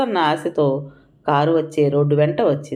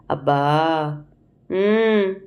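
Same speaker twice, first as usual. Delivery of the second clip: feverish moan; much slower than usual.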